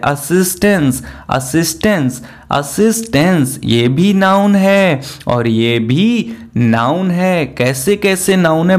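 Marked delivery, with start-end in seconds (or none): 0.0-3.6 "असिस्टेंस" repeated with falling ends; teacher drilling one word; pronunciation drill. Shown as a demonstration. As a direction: repeat "असिस्टेंस" for the class to copy. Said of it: "ये जो असिस्टेंस है".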